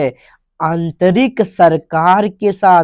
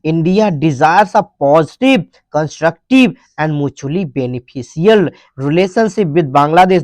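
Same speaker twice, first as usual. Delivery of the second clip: each English word read out slowly and clearly; slow dictation reading; much slower than usual. Shown as a demonstration. Teacher reading the headline aloud to students, slow and clear.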